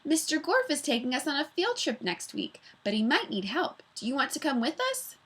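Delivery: villain mimics a child; teacher fakes a girl's voice to fool Miss Mush, high and sweet; stolen girl's voice. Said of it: "using Allison's voice".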